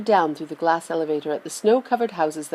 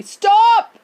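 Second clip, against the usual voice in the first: loud, high alarmed yell; old man yelling in alarm; shout; 8 dB louder than usual. A narrator's reading. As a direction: bellow a warning. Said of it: "shouted Grandpa Joe".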